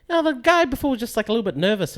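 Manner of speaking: light high soothing woman's voice, lightly voiced; a hint of Sharon cooing to calm him; imitating Sharon. Sharon explaining to Keegan.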